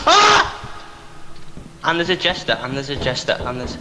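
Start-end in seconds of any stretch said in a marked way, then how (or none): 1.8-3.8 hushed scared whisper; terrified whisper. Real, not acted. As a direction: whisper it, frozen with fear. Hiding, jester near.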